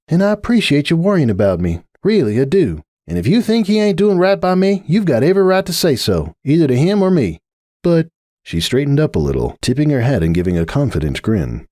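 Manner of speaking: a tired sigh of a friend, lightly voiced; Applejack. Applejack pleading with Rainbow, lightly voiced patient mare.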